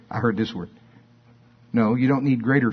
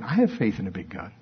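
rote religious phrase; 4 semitones lower, 5 dB quieter than usual. Shown as a demonstration. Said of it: "our religious training still kicks in".

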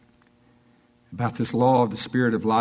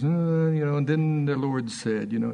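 nonchalant preacher impression. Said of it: "You know how he does".

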